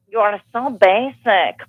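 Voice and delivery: slow mock fake-heiress accent; drawn-out imitation of a fake heiress's accent; Anna Delvey accent. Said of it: "of Anna Delvey, that fake heiress".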